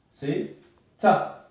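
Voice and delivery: "ta" said as a clear open ta; ta with fatha. Shown as a demonstration. Teacher to class, demonstrating the syllable "ta". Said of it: "si je mets fatha".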